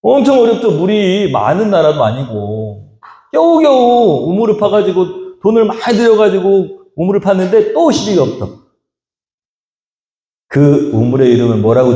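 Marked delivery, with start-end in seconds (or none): none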